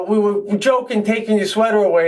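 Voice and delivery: high girlish imitation; lightly voiced young woman. Girl's voice retold.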